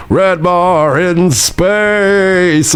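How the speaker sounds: very slow, drawn-out deadpan; imitating his own slow deadpan line. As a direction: stretch every word flat and dry. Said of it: "it was me going".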